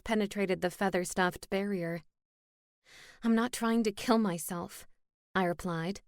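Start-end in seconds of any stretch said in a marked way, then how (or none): 3.2-4.8 speaking into a pillow, muffled; words smothered under a pillow. Acted. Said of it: "I can't understand a word".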